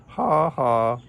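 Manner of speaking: loud, high, spelt-out mock laugh; giggled. A narrator's reading. Kangaroo laughs at trapped Camel, mock giggle. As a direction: laugh it as two teasing beats. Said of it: "giggled Kangaroo".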